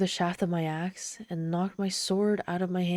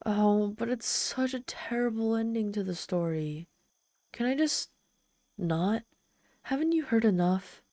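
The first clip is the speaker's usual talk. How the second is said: higher, wheedling, begging off; whiny pleading; 5 semitones higher than usual. Acted. Demon whining to the human to stop the story, higher. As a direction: plead like a sulky child. Demon begs to skip the ending.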